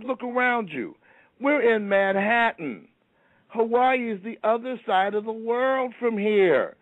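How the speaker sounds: a put-out genie listing why it's impossible; exasperated genie. Retold or imitated. Genie rants about the bridge.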